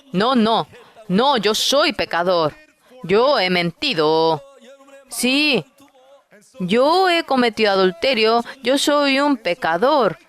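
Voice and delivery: a lightly voiced sinner begging and confessing. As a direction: pitch lifted high, pleading each admission.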